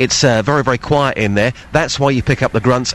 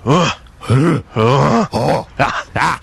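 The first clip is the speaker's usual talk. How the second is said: grunting; much slower than usual. Shown as a demonstration. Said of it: "they do it like this".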